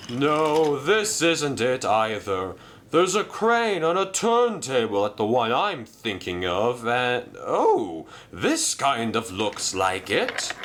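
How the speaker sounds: spot the place at last; searching engine. Acted. Merlin searching.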